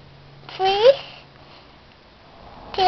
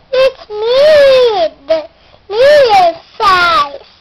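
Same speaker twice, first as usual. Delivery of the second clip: middle goat; 3 semitones higher, 5 dB louder, slower than usual. Acted.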